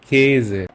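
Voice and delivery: "কেজে" said with the lips spread wide in a grimace for the ä; mouth pulled for ä. Shown as a demonstration. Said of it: "মুখটা একটু ব্যঙ্গ করে বলতে হয়".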